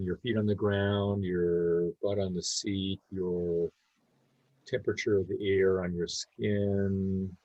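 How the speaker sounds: calm meditation guidance with long pauses; unhurried, easy guide leaving space between phrases; guided meditation. Real, not acted. Leading a group to notice body and breath, guided meditation.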